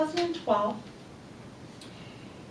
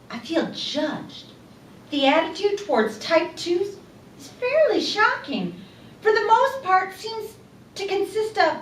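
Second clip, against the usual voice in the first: put-on higher, louder Irish accent, upset and indignant; 7 semitones higher, 6 dB louder than usual. Speaker voicing her Irish friend Claire's frustration, in an Irish accent. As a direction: voice an aggrieved Irish woman in an Irish accent. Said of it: "Irish accent".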